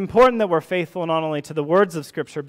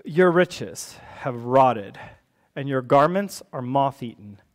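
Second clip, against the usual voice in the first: scripture reading; 2 semitones lower than usual. Acted. Reads scripture verse aloud.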